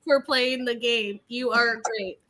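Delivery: stiff, slow read of rehearsed praise; mock someone reading lines off a script. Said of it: "they got scripted".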